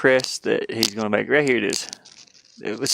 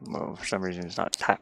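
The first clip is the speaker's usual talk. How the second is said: whisper; 3 semitones lower, 8 dB quieter than usual. Real, not acted. Muttering while typing search.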